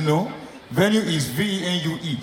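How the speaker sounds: "venue" spelt out slowly, letter by letter; slow correction. Retold or imitated. Correcting the woman, spelled slow and deliberate. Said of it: "I said".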